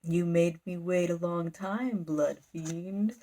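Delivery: lightly voiced creepy monster, slow. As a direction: draw it out with a hint of menace. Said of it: "you hear a creepy voice".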